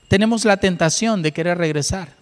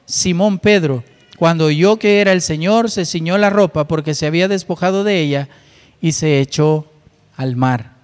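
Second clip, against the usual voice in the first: measured, deliberate Bible reading; scripture reading. Acted. Preacher reading John to the church in steady reading voice.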